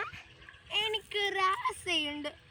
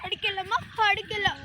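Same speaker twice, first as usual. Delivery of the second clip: angry shout. Acted. Mother scolds hungry child.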